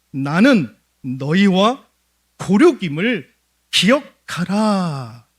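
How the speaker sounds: each word drawn out slow and loud; slow emphatic appeal. Acted. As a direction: press it home slowly, like a plea to kinsmen. Preacher voices Abimelech's appeal.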